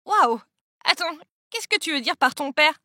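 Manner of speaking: mildly breathless surprise, narrated; a touch of a startled gasp. A narrator's reading. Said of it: "Lise haletait". (léger halètement de surprise)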